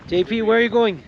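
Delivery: high, loud call across camp. Real, not acted. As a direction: shout to get his attention. Calling out to guide.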